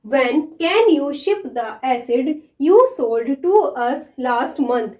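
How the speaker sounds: very slow, word by word dictation; slow dictation reading; dictation pace. Shown as a demonstration. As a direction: read it out slowly for students to write. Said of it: "मैं पहले इसको read कर देती हूँ".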